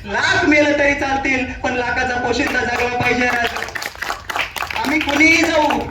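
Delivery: pleading soldiers. Acted. Soldiers beg king not to go.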